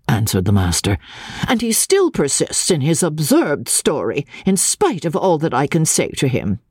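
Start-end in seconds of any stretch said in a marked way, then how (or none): 1.5-6.6 strict teacher. Acted. Master complains of boy.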